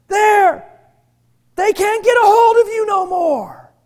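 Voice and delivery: loud, high, triumphant-sounding retort; emphatic shouted finality, acted; forceful retold declaration. Retold confrontation, phone confiscated.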